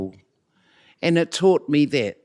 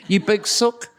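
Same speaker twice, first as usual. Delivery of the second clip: higher, voiced mock jibe; teasing insult; 7 semitones higher than usual. Co-teacher teasing her colleague for backing out, aloud.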